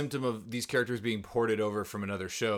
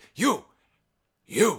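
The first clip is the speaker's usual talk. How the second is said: high, loud kung fu movie shout. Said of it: "one of those scenes in, like, the old Hong Kong, uh, kung fu movies".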